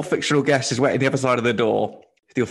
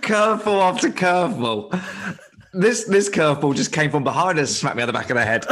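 real laughing disbelief; amused astonishment; 3 semitones higher than usual. Real, not acted. Host reacting to an unexpected guest choice, laughing. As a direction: reel from the surprise with a laugh.

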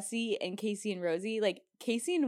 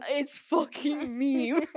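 mocking castmate; 5 semitones higher, 4 dB louder, much slower than usual. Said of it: "And they're like".

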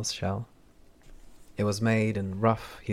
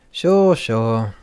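prickly mutter; 2 semitones higher, 12 dB louder than usual. Acted. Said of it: "with an increasingly prickly mood muttered".

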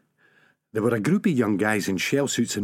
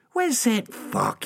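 anxious; 11 semitones higher, slower than usual. A narrator's reading. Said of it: "couldn't keep the anxiety out".

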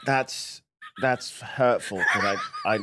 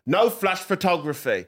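Peaky Blinders voice; 2 semitones higher, slower than usual. Shown as a demonstration. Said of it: "Peaky Blinders style".

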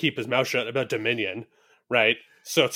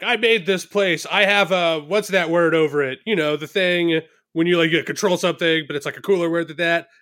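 rambling Trump impression; 3 semitones higher than usual. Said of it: "he's just like".

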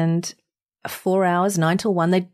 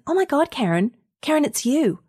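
rising, high squeals of disbelief at the voice; imitating a friend who can't believe her ears; shocked recognition; 8 semitones higher than usual. Friend recognises Karen on the GPS, squealing in high disbelief.

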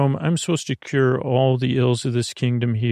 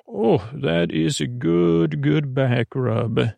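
blissful sigh; slower than usual. Acted. Enjoying teddy bear's back rub.

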